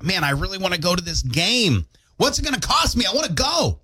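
high, pleading fan voice; eager. Pretend. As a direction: sound desperate to get tickets. Mock fan wanting tickets.

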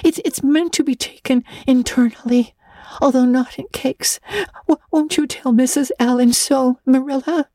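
put-on high, tearful girl's lament with stammered catches; sobbing. A narrator's reading. Anne pours out her disgrace to Marilla, sobbing. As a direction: wail woefully, breaking up on words. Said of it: "sobbed Anne, without looking up".

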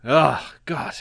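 high-pitched comic British voice; Slap Slapley. Acted. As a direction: pitch it way up, like a silly Brit. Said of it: "Edgy Slap".

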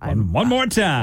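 talking around a mouth guard; words blocked by a mouth guard. Real, not acted. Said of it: "Tight fit today".

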